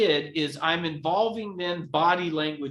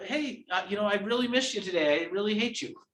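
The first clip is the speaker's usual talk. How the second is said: nice, pleasant tone; 3 semitones higher, 3 dB quieter than usual. Showing how harsh words sound when said nicely: nice tone. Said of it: "said it in a nice tone".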